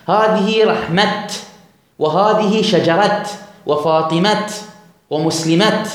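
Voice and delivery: feminine endings said slowly with an audible final t; pausing on open T. Shown as a demonstration. Teacher demonstrates for students stopping on ta, slow final t. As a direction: end رحمة and شجرة on a crisp t, not h. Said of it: "فيقول هكذا ويهمش".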